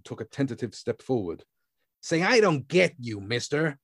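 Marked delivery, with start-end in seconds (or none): 2.0-3.8 higher, confused tough-guy voice. A narrator's reading. The man glaring at Grand, high and baffled. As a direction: play the baffled heavy.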